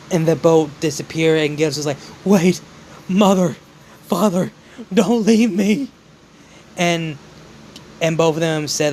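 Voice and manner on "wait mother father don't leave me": desperate plea. Acted. Son begs vanishing parents to stay.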